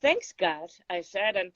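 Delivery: unhurried, poised recital of a poem; poem reading. Acted. Reading her poem to the host, measured recital.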